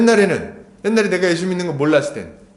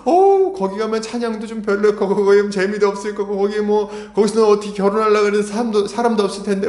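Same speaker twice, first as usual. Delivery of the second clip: raised pitch, running through the worries; mock well-meaning worrier; imitated fussing concern; 5 semitones higher than usual. Preacher imitating people worrying for a church planter, fussing. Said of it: "막 걱정을 해주고 그러면서".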